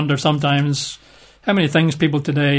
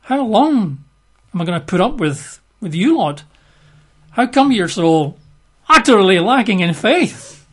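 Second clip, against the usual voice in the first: upset rebuke; 5 semitones higher, 3 dB louder than usual. Acted. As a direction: scold them, getting louder. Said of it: "Jesus is actually quite upset here".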